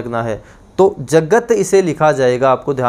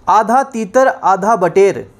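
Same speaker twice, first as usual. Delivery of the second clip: slow proverb announcement; slower than usual. Shown as a demonstration.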